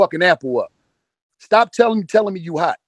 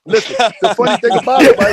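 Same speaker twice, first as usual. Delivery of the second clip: loud over the crowd; 7 semitones higher, 7 dB louder than usual. Real, not acted. Shouting over laughing friends.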